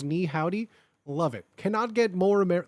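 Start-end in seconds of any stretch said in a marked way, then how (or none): 0.0-0.7 a hint of a Texan twang on Ni howdy; understated cowboy Ni howdy; light cowboy accent. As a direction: toss off Ni howdy with just a trace of a cowboy accent. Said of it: "has, like, a cowboy accent and goes".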